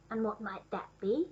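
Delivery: soft, gentle question; kindly. A narrator's reading. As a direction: ask it with quiet kindness. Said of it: "in a kindly voice".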